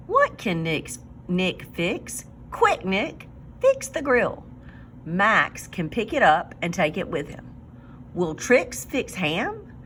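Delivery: clear, lively storybook reading; picture-book read-aloud for a class; reading to children. Acted. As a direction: read it out for young readers to follow. Teacher reads story to class.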